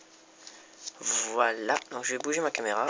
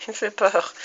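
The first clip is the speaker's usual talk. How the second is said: high whispery laughing fear; laughing scared; 8 semitones higher, 4 dB louder than usual. Pretend.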